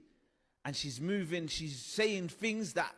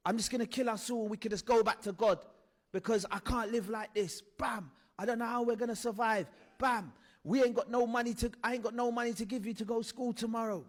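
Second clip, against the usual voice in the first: high, raised despairing rant; despairing shout; 5 semitones higher than usual. Retold or imitated. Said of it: "So my mum used to say this".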